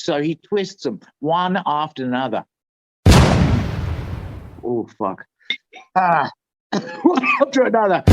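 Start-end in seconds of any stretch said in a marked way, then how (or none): 4.7-5.3 William Burroughs voice. Acted. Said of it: "I'm gonna do my best William Burroughs voice". 5.9-8.0 high, quick repeat broken by laughter; laughing. Real, not acted.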